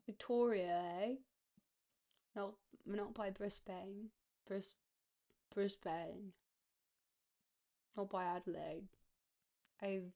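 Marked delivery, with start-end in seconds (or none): 0.1-8.9 muddled attempt at an Australian accent. Player reading city names off the map, muddled Australian accent. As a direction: try Australian and let the accent wander. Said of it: "too much going on in the accent category".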